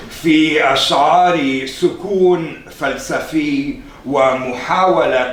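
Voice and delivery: measured, declaimed literary Arabic; formal Arabic reading. Acted. Presenter reading a poet's own words to the audience, formal recitation. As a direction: read it out with deliberate, weighted phrasing.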